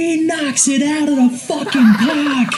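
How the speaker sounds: put-on shrill high yell, thick Brooklyn accent. Retelling a movie scene where a character starts yelling: imitating a yell in a heavy brooklyn accent. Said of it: "just starts yelling about".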